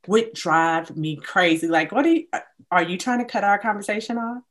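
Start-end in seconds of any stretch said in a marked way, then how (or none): 1.9-4.4 indignant questioning. Retold or imitated. Voicing reaction to a curt okay.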